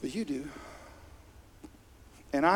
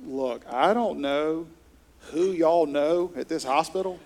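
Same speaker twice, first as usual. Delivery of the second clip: slow start building to a much louder exclamation; nurse exclaiming; 2 semitones higher, 7 dB louder than usual. Retold or imitated. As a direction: play the astonished trauma nurse, swelling to a loud finish. Retelling trauma nurse's exclamation.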